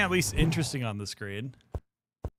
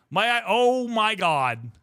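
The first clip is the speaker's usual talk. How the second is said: slow, louder "oh my god"; drawn-out amazement; 3 semitones higher, 4 dB louder, much slower than usual. Real, not acted. Streamer sees her new model, stretched amazement. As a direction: stretch it out in awe.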